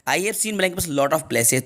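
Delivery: very slow, word by word; slow dictation. Shown as a demonstration. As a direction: read the question slowly. (बहुत धीमे पढ़ना)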